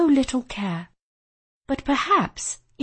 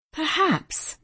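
lightly raised pitch, feigned ease; striving to sound light; 6 semitones higher, 3 dB quieter than usual. A narrator's reading. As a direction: try to sound casual and unbothered. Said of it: "striving to sound light".

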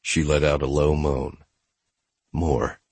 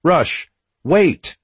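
high urgent shout after him; yelling; 11 semitones higher, 5 dB louder than usual. A narrator's reading. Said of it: "Gia yelled".

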